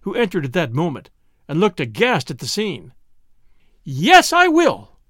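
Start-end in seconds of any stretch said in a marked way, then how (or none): 3.8-5.0 high, loud, defiant cry; excited, emphatic vow; wrought-up exclamation. A narrator's reading. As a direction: declare it with no restraint. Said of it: "exclaimed Susie".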